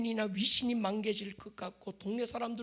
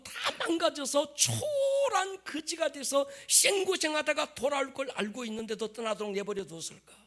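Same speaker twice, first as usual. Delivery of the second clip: impassioned preaching; 7 semitones higher, 5 dB louder than usual. Acted. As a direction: press the question home, loud. Preaches at full force.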